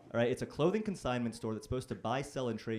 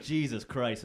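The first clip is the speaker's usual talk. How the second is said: louder exasperated Jesus Christ; exasperated exclamation; 6 dB louder, slower than usual. Retold or imitated. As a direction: let it out like a fed-up pastor. Pastor's exasperated reply.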